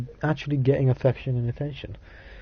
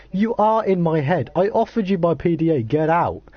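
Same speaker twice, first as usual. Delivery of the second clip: mildly indignant, higher-pitched reading; 4 semitones higher than usual. Acted. Character ordering the intruder out of their head, mildly indignant. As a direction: act a mild protest, pitch lifted.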